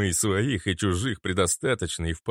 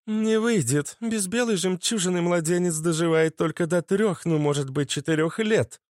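shouted reply; 10 semitones higher than usual. Acted. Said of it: "крикнула Гюрза".

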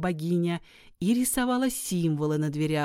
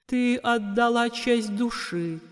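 gentle goddess; 5 semitones higher than usual. Acted. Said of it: "сказала богиня".

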